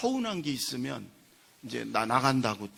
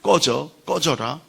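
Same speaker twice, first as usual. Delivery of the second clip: mock angry dismissal, louder on the last words; retold angry outburst; 8 dB louder, slower than usual. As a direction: act out a fed-up insult, drawn out. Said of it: "화가 나가지고 그런데".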